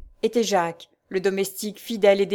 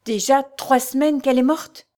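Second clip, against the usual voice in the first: higher and louder, grief breaking through; anguished realization; 5 semitones higher, 4 dB louder than usual. A narrator's reading. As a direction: cry it out as tears come. Knight realizes, starts weeping.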